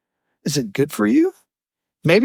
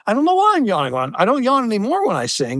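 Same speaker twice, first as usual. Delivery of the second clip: mock protest; 5 semitones higher, faster than usual. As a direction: insist you really can't help it. Retold teen answering his parents.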